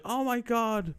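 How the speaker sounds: high, loud mock gasp of a woman; mock astonishment. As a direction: imitate her shocked exclamation. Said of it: "and then she's like".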